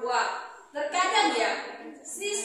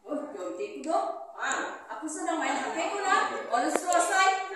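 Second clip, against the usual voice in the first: put-on rude child reply. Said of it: "jangan seperti itu".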